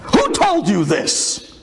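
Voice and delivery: slow, stunned demand; astonished demand. Acted. Rabbi questions five-year-old girl, slow and astonished.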